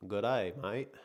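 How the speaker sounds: badly faked Aussie greeting; horrible Australian accent. Testing an Aussie greeting on the chat, horrible Australian accent. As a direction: try a rough Australian accent. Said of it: "That was a horrible accent".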